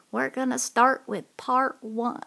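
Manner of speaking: put-on whispered in an old English lady voice; breathy whisper, still in character.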